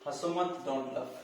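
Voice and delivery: unhurried, stretched out; slow recap. Shown as a demonstration. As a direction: say it slowly so learners copy. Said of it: "teacher's slow final repeat". (धीमे, दोहराते हुए)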